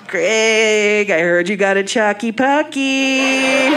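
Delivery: slow, drawn-out taunt; teasing work buddies. Acted. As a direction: draw it out like buddies ribbing him. Imagined teasing friends at work.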